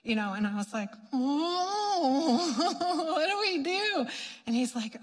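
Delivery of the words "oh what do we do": higher, laughing mock panic; retold alarm. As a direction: play helpless shock through a laugh. Retold shock at possessed woman.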